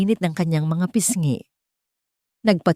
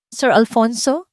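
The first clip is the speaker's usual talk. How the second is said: trembling call; 6 semitones higher, 3 dB louder than usual. Acted. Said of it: "Ang boses ay nanginginig".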